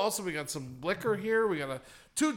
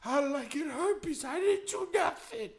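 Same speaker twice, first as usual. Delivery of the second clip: panicked self; 10 semitones higher than usual. Retold or imitated. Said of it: "I was like".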